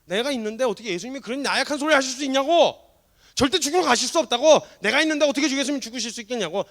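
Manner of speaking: loud, high, insistent objection; imitated protest. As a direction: act out an outraged loyal follower. Disciple protesting, interrupting his master. (크고 높게 강하게 항변하는 흉내)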